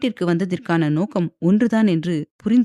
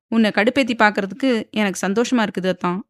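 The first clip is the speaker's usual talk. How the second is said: quick, mildly mocking tease; teasing; 3 semitones higher, faster than usual. Wife teases her husband on the phone, lightly mocking. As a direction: needle him, a little faster. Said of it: "என்று நக்கலாக கூறினாள் தீக்ஷண்யா".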